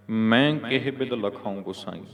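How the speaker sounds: ਮੈਂ read long and nasal at the start. Shown as a demonstration. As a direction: say ਮੈਂ clearly as a nasal "main". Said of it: "ਹੁਣ ਇੱਥੇ ਮੈਂ ਪੜ੍ਹਨਾ".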